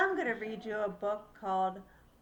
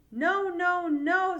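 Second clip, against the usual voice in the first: higher, louder firm no; papa scolding; 8 semitones higher, 11 dB louder, slower than usual. Acted. Papa bird telling Little Bird off, loud. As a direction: stop the little one firmly. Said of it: "said Papa".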